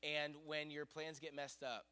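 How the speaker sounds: very soft, hushed and measured; voice of God. Retold or imitated. The Lord speaking to preacher at night, hushed reassurance. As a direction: speak it gently with pauses between phrases. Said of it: "the Lord just quickly spoke to me".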